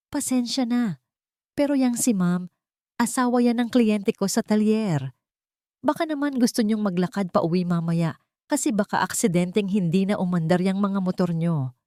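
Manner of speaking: polite words with a clear warning underneath; quiet threat. Acted. Mechanic warns the men to leave her alone, quietly threatening. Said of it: "Ang banta ay hindi pa sigaw, ngunit malinaw".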